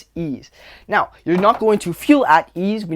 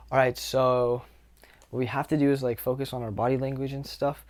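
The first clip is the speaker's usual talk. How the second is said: tense mock lecture; 4 semitones lower, 6 dB quieter than usual. Shown as a demonstration. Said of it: "But when I speak like this".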